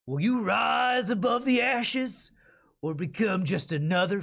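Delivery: slow, gritty southern Texas trailer read; gritty Texas accent. Shown as a demonstration. Voice actor records the Texas version of the survival game ad. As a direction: lean into the Texas drawl for a gritty survival pitch. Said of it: "So let's try a Texas accent first".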